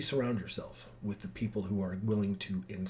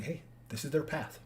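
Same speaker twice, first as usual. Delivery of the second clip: gentle divine voice; 5 dB quieter, slower than usual. Retold or imitated. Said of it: "God inspired me".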